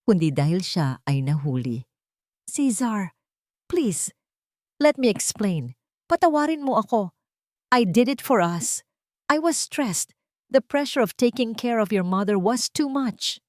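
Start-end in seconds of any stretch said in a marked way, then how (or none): 2.5-13.4 high, trembling, desperate begging; trembling plea. A narrator's reading. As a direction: beg him while clinging to his leg. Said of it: "Ang boses ni Tala ay nanginginig".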